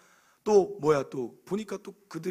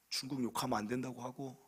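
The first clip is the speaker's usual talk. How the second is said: ordinary talk, nothing marked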